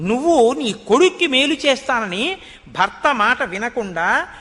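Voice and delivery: retelling a furious rebuke; angry minister. Retold or imitated. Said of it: "ఎక్కడ లేని ఆగ్రహం వచ్చింది".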